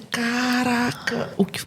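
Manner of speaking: hushed, stunned whisper; whispered self-reproach. Retold or imitated. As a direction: breathe it out in shock. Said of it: "Quase que eu falei assim".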